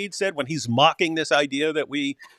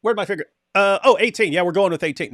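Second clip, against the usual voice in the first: airy, higher mock voice picking a number at random; a hammed-up idle chooser, pitched up; mock careless picker; 4 semitones higher than usual. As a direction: act like someone stabbing a finger at a list. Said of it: "That's not just".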